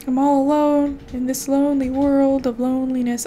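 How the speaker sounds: a touch of melodrama; mock-mournful musing; mock lonely sigh. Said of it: "no one wants to say hi to me".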